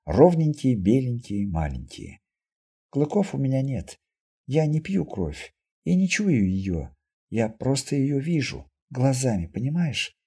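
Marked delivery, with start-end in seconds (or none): 2.9-10.1 put-on softly spoken mutant girl, matter-of-fact; calm girl explaining her gift, lightly voiced; lightly voiced mutant girl, composed. (слегка сыгранная спокойная девушка-мутантка)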